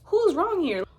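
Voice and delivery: loud, high rhetorical demand; who's wrong here, said loud and high; indignant outburst. Real, not acted. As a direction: call them out sharply.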